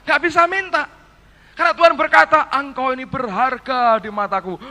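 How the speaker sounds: wife retelling God's words, lightly emotional; moved, emotional retelling. Retold or imitated. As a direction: blurt it out as if still moved. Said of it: "Dia bilang".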